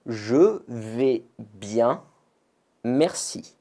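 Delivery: je vais bien drawn out slowly; natural answer. Shown as a demonstration. Teacher shows the natural reply je vais bien, said slowly. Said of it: "on répond bien naturellement".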